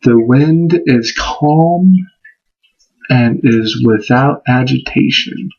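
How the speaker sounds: slow, calm incantation; slow spoken intent. Shown as a demonstration. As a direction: state the intent slowly and evenly. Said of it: "my intent for this particular event was".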